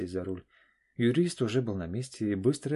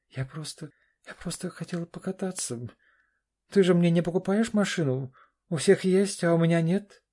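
обиженная дочь; 9 semitones higher, 6 dB louder than usual. Acted. Дочь оправдывается, обвиняет отца.

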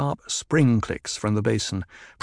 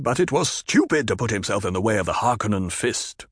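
higher, defiant chieftain; defiant Stilgar; 3 semitones higher than usual. Acted. Chieftain scorns the duke to Jessica, defiant.

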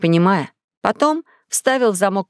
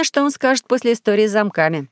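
usual speaking voice

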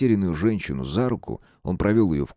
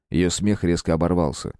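ordinary delivery

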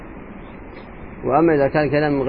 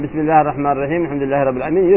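quick recitation; much faster than usual. Shown as a demonstration. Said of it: "يحسب له من ب".

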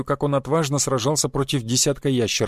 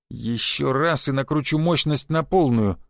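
through gritted teeth; slower than usual. Acted. Conductor threatening the flirting passenger, slow and gritted. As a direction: warn him off, each word deliberate. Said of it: "процедила проводница".

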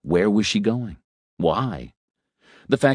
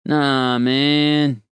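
casual roadie; 7 semitones higher, 4 dB louder than usual. Acted. Roadie brushing off advice.

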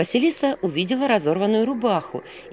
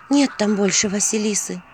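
understated, mildly downcast; sighing; 3 semitones higher than usual. Acted. Vasilisa tells the owl of a death, gently sighing. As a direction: let a little sigh into it. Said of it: "вздохнула Василиса".

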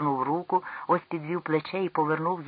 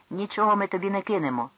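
stern; 4 semitones higher, 4 dB louder than usual. Acted. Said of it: "озвався Ел строго".

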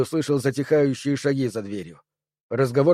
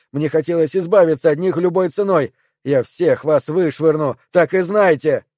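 tense, louder rising anger; mounting rage; 3 semitones higher, 4 dB louder than usual. Acted. Perry snarls at the triangles inside him in mounting rage. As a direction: spit it out at the creatures inside you.

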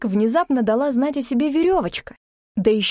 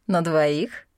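"На двоих?" as a teasing rising question; mocking question; 5 semitones lower than usual. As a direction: lift "На двоих?" in amused disbelief. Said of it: "бросил на него насмешливый взгляд".

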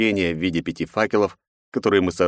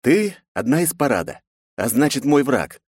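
spiteful smirk; 7 semitones higher than usual. A narrator's reading. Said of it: "злобно усмехнувшись".

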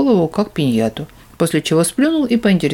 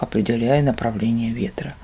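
usual speaking voice

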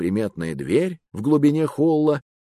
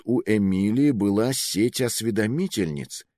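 usual speaking voice

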